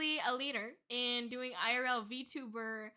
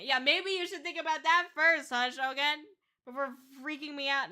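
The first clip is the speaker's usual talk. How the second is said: loud, higher mock telling-off; mock scolding; 3 semitones higher, 5 dB louder than usual. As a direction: jokingly scold a viewer. Mock scolding, then says kidding.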